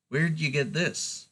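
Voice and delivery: lightly creaky creature voice. Acted. Tree creature asking about the eye, lightly creaky. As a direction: put a hint of creak in it. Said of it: "In a creaky voice".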